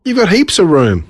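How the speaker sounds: put-on show-off boy shouting from the bus; loud boast. Boy calls out to the other children, loudly. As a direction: call it out so the other kids hear. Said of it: "said the boy, loudly".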